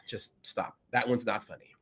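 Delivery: quiet stern aside. Retold or imitated. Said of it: "someone to be like".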